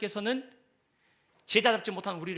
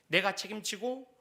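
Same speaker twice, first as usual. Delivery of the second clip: louder assuring promise, fading at the end; God's voice; 4 dB louder than usual. Acted. God telling his disciples not to worry, assuring. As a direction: promise to carry it all. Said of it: "우리에게 말씀하시는 겁니다".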